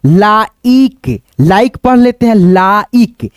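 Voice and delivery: लाइक said as like, with no sound for the final e; silent e. Shown as a demonstration. Teacher showing the silent e in लाइक. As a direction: say लाइक as like, drawn out. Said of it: "लाइके नहीं ना पढ़ते हैं".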